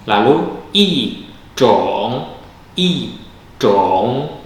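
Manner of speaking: i in i zhong said falling, zhong rising; model i zhong. Shown as a demonstration. Teacher demonstrates yi before zhong to students, carefully. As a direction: voice the tone change clearly. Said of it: "i berubah menjadi nada empat".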